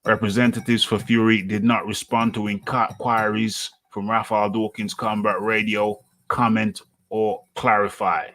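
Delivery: reading an article aloud, newsy cadence; news read. Acted. Host reads out news article.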